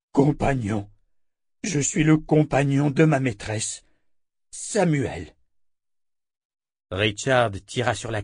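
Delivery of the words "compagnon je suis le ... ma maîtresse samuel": lightly voiced creature, halting; monster captive, naming itself. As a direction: introduce yourself as a simple monster servant. Monster character in narrated story.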